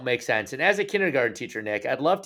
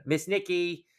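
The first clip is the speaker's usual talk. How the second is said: put-on baby voice; 3 semitones higher, slower than usual. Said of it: "I'll leave my baby voice there".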